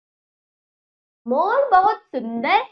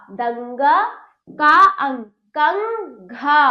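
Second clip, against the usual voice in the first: slow, spelling-out teacher drill, then the whole word; a teacher drilling children in blending syllables into words; slower than usual. Shown as a demonstration. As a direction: sound each syllable out for the class, then blend.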